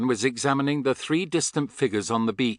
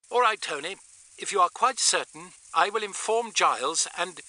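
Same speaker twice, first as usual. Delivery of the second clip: higher-pitched woman through a walkie-talkie; reply as a filtered radio message; 7 semitones higher than usual. A narrator's reading. Astrid replying to Tony over radio, radio voice.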